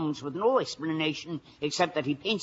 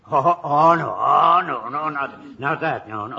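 1 alarmed protest; 7 dB louder than usual. Acted. Sergeant horrified at portrait offer.

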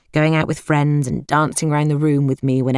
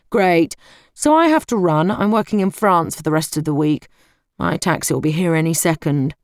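a hint of a self-important uncle in a hurry; brusque smarmy uncle; 3 semitones higher than usual. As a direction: rattle it off, already halfway out the door. Uncle Reggie voiced in reading.

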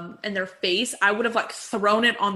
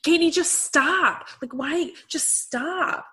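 exasperated plea; 6 semitones higher, much slower than usual. Retold or imitated. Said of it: "Stassi and Kristen are like".

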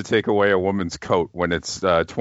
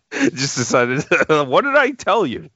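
mock Jimmy; 7 semitones higher, 4 dB louder, slower than usual. Imitating Jimmy.

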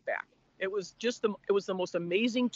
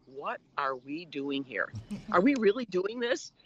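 low, slow, wary doubting husband, mildly voiced; a hint of husband's nervous doubt; uneasy second thoughts on landing; 3 semitones lower, slower than usual.

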